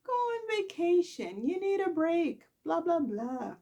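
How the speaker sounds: lightly voiced pushy friend; mock Nikki.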